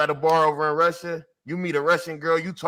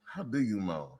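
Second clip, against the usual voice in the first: much softer, lower repeat; a hushed, lower echo of the question; 10 semitones lower, 12 dB quieter than usual. Pretend. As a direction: drop it low and quiet, almost to yourself. Repeats the quote softly.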